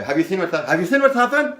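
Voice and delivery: patter line. Shown as a demonstration. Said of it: "So I do it again slowly".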